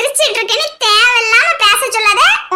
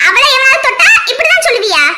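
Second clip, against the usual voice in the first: tearful furious shout; 3 semitones higher, 3 dB louder than usual. Acted. Woman confronts harasser tearfully.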